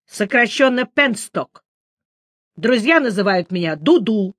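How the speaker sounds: lightly voiced doppler. A narrator's reading. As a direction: announce your full name with pride. Doppler introduces himself, theatrical. (слегка писклявый голос доплера)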